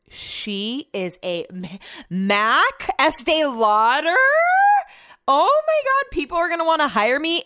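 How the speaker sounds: slow build into high-pitched gushing; hammed-up awe, stretching words then leaping up high; gushing self-praise. Re-enacts delight at her own makeup.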